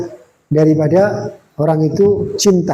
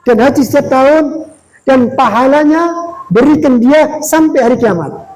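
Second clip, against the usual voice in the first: higher, louder, slow earnest supplication; fervent prayer; 5 semitones higher, 4 dB louder than usual. Acted. The Prophet prays to God for the scholar, fervent and slow. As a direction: lift it as a heartfelt plea to God.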